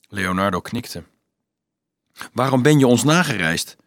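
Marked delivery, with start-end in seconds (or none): 2.3-3.7 mildly curious question. Acted. Peter asks the student why he followed, curious. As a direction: ask with a touch of curiosity. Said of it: "vroeg Peter nieuwsgierig".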